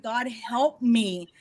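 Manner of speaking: slow, drawn-out mock plea; retold tearful plea. Singer crying in the studio asks for help, mildly tearful. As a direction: stretch it like a weary little prayer. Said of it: "I started crying".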